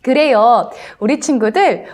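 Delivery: usual speaking voice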